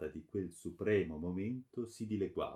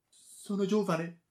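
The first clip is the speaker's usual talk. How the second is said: high, slow, loud begging; desperate plea; 11 semitones higher, 7 dB louder, slower than usual. A narrator's reading. Daughter pleading her youth, desperate. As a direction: plead for your life in a high voice.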